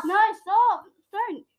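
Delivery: loud, high protest; exasperated shout. Real, not acted. Stopping brother's shouting.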